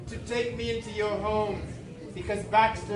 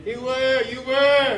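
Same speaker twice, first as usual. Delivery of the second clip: excited shout; 2 semitones higher, 7 dB louder than usual. Acted. Excited agreement.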